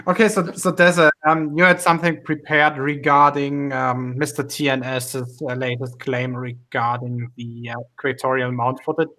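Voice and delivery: put-on New Zealand accent; hosting in a Kiwi accent. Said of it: "drop the Kiwi accent now".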